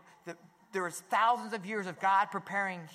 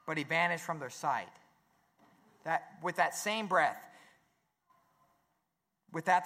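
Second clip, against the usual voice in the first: scripture reading. Acted. Reads scripture passage aloud.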